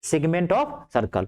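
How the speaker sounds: each word stretched out for note-taking; slow, careful teacher dictation. Shown as a demonstration. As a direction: spell it out slowly so they can write. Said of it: "English में बोलते हैं".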